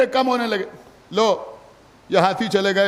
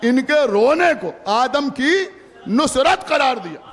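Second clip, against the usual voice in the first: slow build into a shout on Nusrat; louder emphatic repeat; slower than usual. Shown as a demonstration. Preacher repeating to mourners, loud emphatic restatement. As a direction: drive the point home, hit Nusrat hard. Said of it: "सुना आपने या नहीं सुना?".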